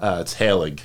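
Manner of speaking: Halig said as HAY-lig; pronouncing his name. Shown as a demonstration. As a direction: Halig with stress on HAL, falling. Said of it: "How do you pronounce your last name?".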